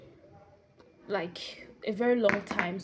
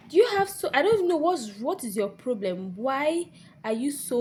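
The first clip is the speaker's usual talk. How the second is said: exasperated confrontation, starting high and loud; retold anger; 4 semitones higher, 4 dB louder than usual. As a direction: demand an explanation, slowing as it goes. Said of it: "And I was so mad".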